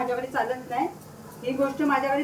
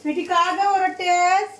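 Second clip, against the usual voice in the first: higher, slow coaxing call; 5 semitones higher, 3 dB louder, slower than usual. Real, not acted. Mother calls dog Sweety asking why she barks, high coaxing.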